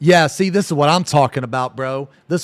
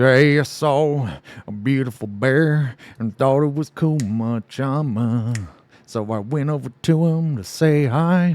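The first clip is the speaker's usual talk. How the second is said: heavy, put-on, twangy country accent; 4 dB quieter than usual. Riffing on a funny voice idea for the group, in a country twang. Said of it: "some twang that was like".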